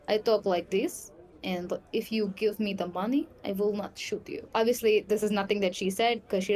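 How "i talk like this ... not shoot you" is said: lightly done Russian mob accent. Shown as a demonstration. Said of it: "speaking like a Russian mob person".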